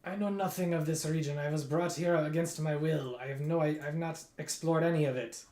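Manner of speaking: put-on Russian accent. Prisoner tells the adventurers he knows nothing, in a light Russian accent, indignant. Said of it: "I don't know why he's Russian".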